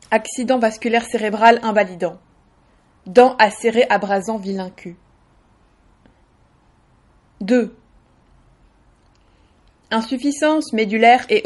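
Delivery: deadpan numbered catalogue reading; automatic list recital. Shown as a demonstration. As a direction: recite each item like an official list, pausing between entries. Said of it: "d'une manière un petit peu automatique".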